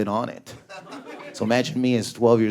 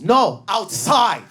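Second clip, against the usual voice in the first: grandma; 9 semitones higher, 3 dB louder, much slower than usual. Retold or imitated. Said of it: "she goes".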